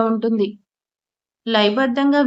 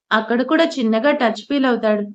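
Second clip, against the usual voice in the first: ordinary delivery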